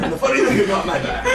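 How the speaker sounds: fast, breaking into laughter; can't stop laughing mid-sentence; laughing through words. Real, not acted.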